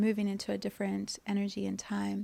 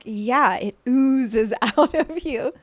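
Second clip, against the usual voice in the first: laughing gush; 4 semitones higher, 9 dB louder, much slower than usual. Retold or imitated. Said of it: "She's like".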